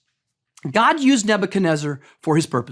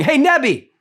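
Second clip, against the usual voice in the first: gloating taunt; 4 semitones higher than usual. Pretend. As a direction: rub it in like a smug preacher. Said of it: "here's how I would deliver this message to the king".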